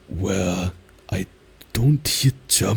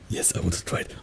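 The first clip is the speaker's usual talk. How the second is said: usual speaking voice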